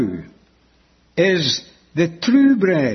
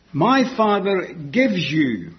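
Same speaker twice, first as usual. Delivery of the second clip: "gives" drawn out slowly and set apart; stress on gives; slower than usual. Real, not acted. Preacher quoting Jesus on the true bread, stress on "gives". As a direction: lean slowly on the word "gives". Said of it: "I'm emphasizing the word gives".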